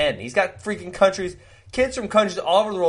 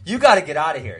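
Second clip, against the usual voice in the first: louder, retold fatherly order; mock stern order; 5 dB louder, faster than usual. Dad kicks giggling son out of the room, mock stern order. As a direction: imitate dad ordering someone out.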